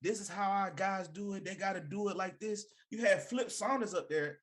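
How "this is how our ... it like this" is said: a light mock Southern coach accent, raised and bossy. Imitating the coach's Southern accent to hosts. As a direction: lightly play a Southern coach barking orders. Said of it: "he come on with a Southern accent".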